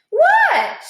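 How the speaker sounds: high, loud startled what; squeaky alarmed question; sharp what. A narrator's reading. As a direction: caught out, snap back. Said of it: "she asks".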